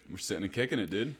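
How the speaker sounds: lightly put-on American accent. Shown as a demonstration. Co-host tries the show's catchphrase in an American accent. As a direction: try a casual American accent. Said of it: "That is my American accent".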